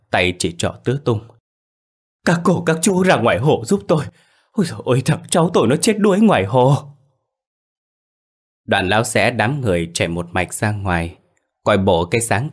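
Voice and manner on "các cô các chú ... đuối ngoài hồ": high, loud, on the verge of crying; tearful pleading. A narrator's reading. Old man begging villagers to help at the lake, tearful. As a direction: beg the neighbours for help through tears. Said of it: "Lão Sự mếu máo".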